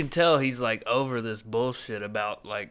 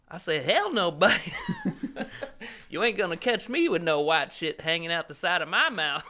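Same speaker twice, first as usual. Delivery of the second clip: higher-pitched mock-indignant sandwich customer; Cy Amundsen; 6 semitones higher than usual. Customer refusing mayo in a retold bit, mock indignation. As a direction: retell it in character, on the edge of laughing. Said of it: "That Cy Amundsen bit about Subway sandwich".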